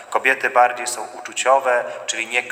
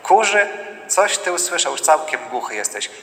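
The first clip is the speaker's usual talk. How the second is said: astonished wife; 4 semitones higher than usual. Acted. Wife surprised by what husband heard, high. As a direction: echo the word in disbelief, pitched up. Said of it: "A żona powie".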